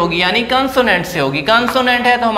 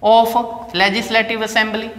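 very slow, each word laid out clearly; slow, careful teacher reading; slowly spelled out; much slower than usual. Shown as a demonstration. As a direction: read the full form slowly for the class. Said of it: "तो ये क्या होता?".

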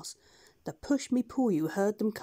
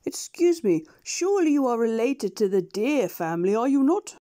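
curious doctor; 3 semitones higher, 6 dB louder than usual. Acted. Doctor questions the beast.

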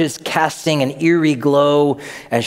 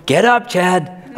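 mom waking son; 5 semitones higher, slower than usual. Retold or imitated.

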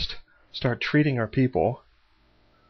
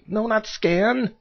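exasperated cry; 10 semitones higher, 5 dB louder, much slower than usual. Real, not acted. Wrong button pressed.

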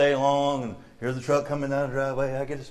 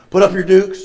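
put-on loud, raised old-time dare; hammed-up brawler's shout; mock fight challenge; 4 semitones higher, 10 dB louder than usual. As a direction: call out a playful challenge to fight.

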